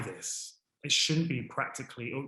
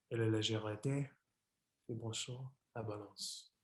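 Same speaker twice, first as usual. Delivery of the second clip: measured French poem recital with long pauses; reading a French poem. Acted. Presenter reciting Cocteau's poem La Balance in French, a measured recital. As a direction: read Cocteau's poem aloud, line by line, carefully. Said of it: "Do excuse my terrible French accent".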